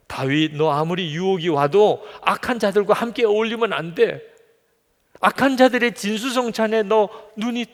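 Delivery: acted God pleading with David to beware; urgent divine warning. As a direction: warn him insistently, pitch climbing high.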